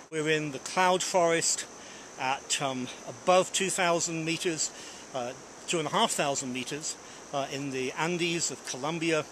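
out of breath, short on air; gasping lightly from thin air; breathless at high altitude. Real, not acted. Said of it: "I'm out of breath because the air is so thin".

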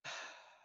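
soft, voiceless sigh. Real, not acted. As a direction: let out a quiet breathy sigh. Sighs before self-deprecating remark.

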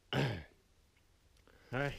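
coughing up a swallowed bug; real cough, bug in the throat; just swallowed a bug. Real, not acted. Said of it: "I just swallowed a bug".

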